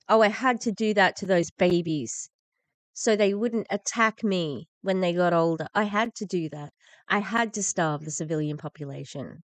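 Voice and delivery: loud sneering mock self-justification; mocking quote. Commentator mocking the attackers' excuse, sneering. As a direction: parody their excuse with scorn.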